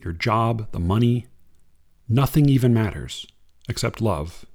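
unhurried reading of verse; poem reading. Acted. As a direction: read it like a poem to an audience. Reads a Kaur poem.

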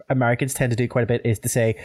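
ordinary talk, nothing marked

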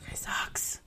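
breathy whispered disgust. Real, not acted. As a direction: whisper it with contempt. Reacting to creepy villain.

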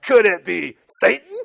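lightly voiced prim church lady; a hint of the sanctimonious church lady; a quick nod to the Church Lady sketch. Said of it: "Dana Carvey's picture popped up".

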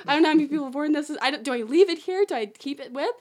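rushed, flustered thinking aloud; retold mild panic. Fake guide stuck in the costume, mild retold panic. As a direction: tumble quickly into worried questions. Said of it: "Now I'm starting to panic".

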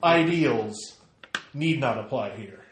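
ringing proclamation. Acted. Climax of speech.

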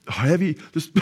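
high, voiceless heaving sobs; imitated heavy sobbing. Preacher shows how his friend cried in his arms, imitated sobbing. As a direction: mimic convulsive crying in bursts of breath. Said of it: "He starts crying".

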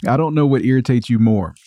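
talking through a mouthful of toffee; words round a sticky bite; chewing sticky toffee. Real, not acted. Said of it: "me chewing toffee in your ear".

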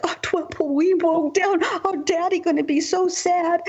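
put-on high, teary little-girl voice, lightly done; imitating a small child upset; crying little girl. Little girl crying to the neighbor about the trampoline, high teary voice.

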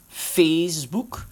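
"Facebook" slowly as FEES-boek; corrected pronunciation. Shown as a demonstration. Host sounding out the respelling F E E S, "Facebook" said slowly as fees-boek. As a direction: draw out "Facebook" with a long ee, rising at the end. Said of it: "dus je hebt F E E S boek".

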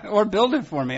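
laughing through the words; giggling as he talks. Real, not acted. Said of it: "laughing while speaking".

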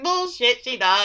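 high-pitched scoffing protest; indignant disbelief. Retold or imitated. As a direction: blurt it out in disbelief. Own indignant reaction, retold.

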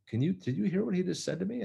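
imitating her huffy outrage; retelling the golfer complaining about the starter's rebuke; offended golfer. Woman indignant at starter.

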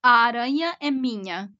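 fluent Portuguese pronunciation; smooth Portuguese accent. Shown as a demonstration. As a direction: say "Aranha é minha" as Portuguese. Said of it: "That's Portuguese".

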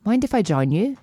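shaky attempt at a British accent. Man at the bar asking to join her, attempted British accent. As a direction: try a British accent, not very convincingly. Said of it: "I'm trying to do an accent here".

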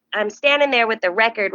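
ordinary talk

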